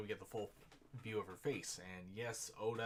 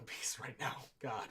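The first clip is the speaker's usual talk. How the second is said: laughing reaction; 4 semitones higher, 5 dB louder than usual. Real, not acted.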